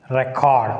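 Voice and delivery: RECord, with an open "rek" at the start; noun stress on first syllable. Shown as a demonstration. Teacher demonstrating the noun, stress on first syllable. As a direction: say Record with a strong REC. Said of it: "make the difference by pronouncing them".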